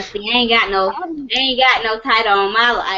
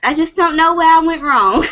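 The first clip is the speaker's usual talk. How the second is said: imitating mom; 4 semitones higher, 4 dB louder than usual. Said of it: "She be like".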